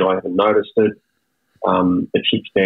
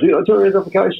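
caller at sea; 10 semitones higher, faster than usual. Retold or imitated. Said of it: "He goes".

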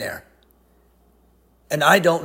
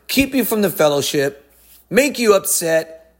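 usual speaking voice

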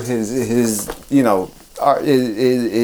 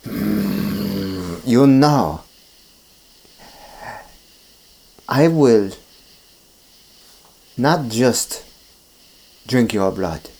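low, slow vampire threat; menacing Dracula; 3 semitones lower, slower than usual. Acted. Dracula warns the physician, low and slow. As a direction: lay out the threat with slow pauses. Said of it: "And he goes".

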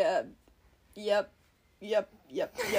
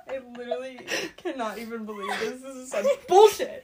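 laugh-crying. Real, not acted. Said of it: "I'm literally gonna cry".

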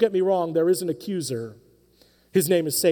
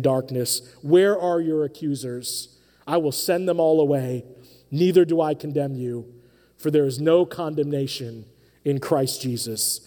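gentle Savior voice; 4 semitones lower than usual. Retold or imitated. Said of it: "The voice of the Savior says".

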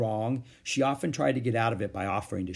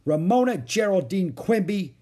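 high, loud scolding of the full name; exclaiming full name; 8 semitones higher, 5 dB louder than usual. A narrator's reading. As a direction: call her out by her full name. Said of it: "exclaimed Beezus".

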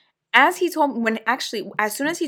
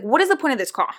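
stern attitude; 3 semitones higher, faster than usual. Retold or imitated. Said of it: "that's how I started".

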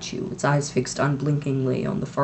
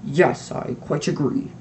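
sinking heart; slower than usual. Acted. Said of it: "his heart sinking horribly".

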